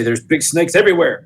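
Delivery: high, loud warning yell; yelling back. Acted. Player's character warns Dieter about snakes, yelling back. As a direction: holler it across to an ally. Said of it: "I'd yell back at Dieter".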